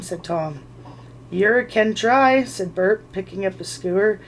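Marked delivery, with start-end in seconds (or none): 1.3-2.4 slow loud higher troll threat; menacing troll. Acted. Bert to Tom, a slow loud troll threat. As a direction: drag it out with relish.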